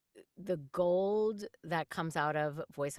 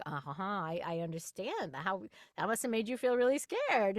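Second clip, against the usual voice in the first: mock-sympathetic listening; 3 semitones higher than usual. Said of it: "act like we're having a conversation".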